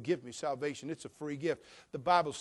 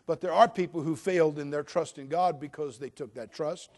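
normal talking voice

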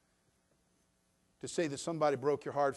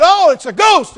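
much higher, much louder cry of fright; frightened cry; 23 dB louder than usual. Retold or imitated. Disciples in the storm seeing Jesus, a loud frightened cry. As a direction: shout it like terrified sailors seeing a ghost. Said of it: "they cry out".

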